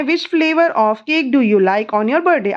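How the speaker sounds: very slow, each word spaced out; slow dictation. Shown as a demonstration. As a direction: read it out slowly for the child to copy. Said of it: "slow dictation of question". (धीरे धीरे बोलकर लिखवाना)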